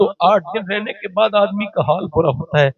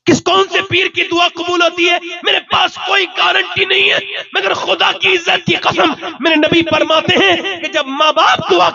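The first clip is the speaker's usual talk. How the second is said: fiery preaching. Acted. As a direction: cry it out to the crowd. Preaching at full force. (بلند آواز میں پرجوش خطابت)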